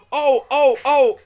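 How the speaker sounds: high loud squeals; trucks crying out. Acted. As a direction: squeal again in alarm. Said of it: "they cried again".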